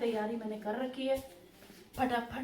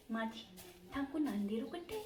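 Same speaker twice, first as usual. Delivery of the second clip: put-on child's Marwari; 3 semitones higher than usual. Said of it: "सानू की मारवाड़ी बहुत खतरनाक है".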